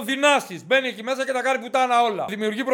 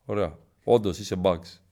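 low, hushed conspiratorial voice; lightly acted gossip sharing secrets; mock secretive confidant; 9 semitones lower than usual. Contestant secretly warning a newcomer about outside gossip, low and hushed.

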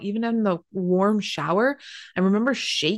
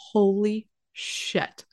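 slow, drawn-out disbelief; retold stunned shock; 2 semitones higher, much slower than usual. Mom and aunt finding water everywhere, stunned. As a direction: stretch it out, imitating stunned onlookers.

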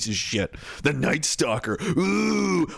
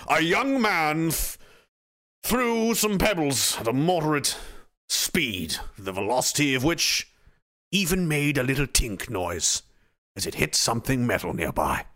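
deadpan report; 3 semitones lower than usual. Retold or imitated. Inspector reporting the pebble crime, low deadpan. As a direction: read it dry like a bored detective.

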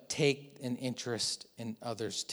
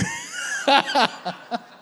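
bright high burst of laughter; real laugh, pitched high; 6 dB louder than usual. Real, not acted. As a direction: laugh at your own joke. Laugh after the joke.

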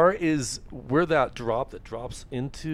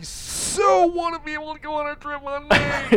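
high put-on voice; 13 semitones higher, 4 dB louder than usual. Playful high mock voice.

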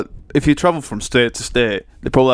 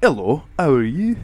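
light imitation Scottish accent. Friend names Scotland, lightly mocked Scottish accent. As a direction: put on a Scottish lilt.

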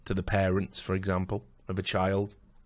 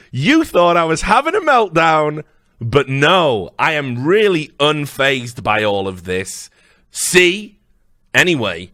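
mocking impression; 3 semitones higher, 6 dB louder than usual. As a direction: ham up forced calm. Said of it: "they always then try to show you".

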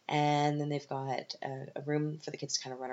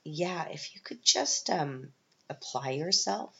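teacher's remark; 2 semitones higher, slower than usual. Retold or imitated. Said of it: "there'd be this".

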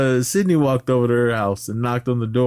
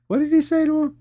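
amused disbelief. Real, not acted. Asks amid laughter.

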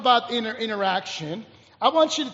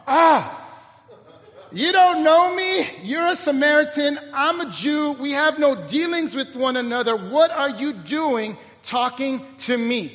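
mock rebuff; 2 semitones higher than usual. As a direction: push him away with indignant questioning. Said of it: "she does a Heisman on him".

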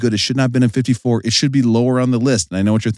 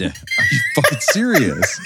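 laughing disbelief. Real, not acted.

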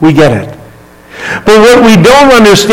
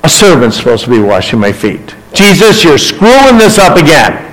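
emphatic refusal; 3 semitones higher than usual. Acted. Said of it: "he's literally saying".

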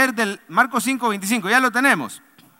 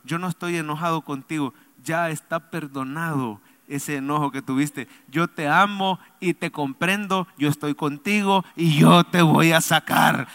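voice of the Lord; 5 semitones lower than usual. Acted. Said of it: "Pero te dice el Señor".

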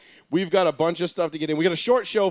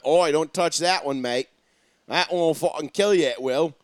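mock Australian accent. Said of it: "I kinda nailed that there for a second".

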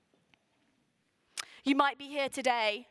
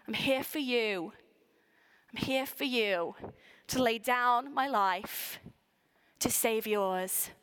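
tender divine voice; 3 semitones lower, slower than usual. Acted. God reassuring people at Jesus' birth, tender and slow. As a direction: speak as God promising to give his life.

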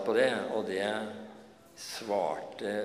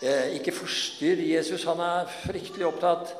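quick hushing that swells higher and louder; hushing bystanders; 5 semitones higher, 4 dB louder than usual. Acted. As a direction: bystanders scolding Bartimeus, quick then louder. Bystanders hush the blind man.

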